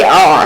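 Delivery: आ squeezed low from the middle of the throat; squeezed throat sound. Shown as a demonstration. Teacher showing ain to students, आ squeezed from the throat. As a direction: drop the pitch and squeeze आ in the throat. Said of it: "और squeeze करके".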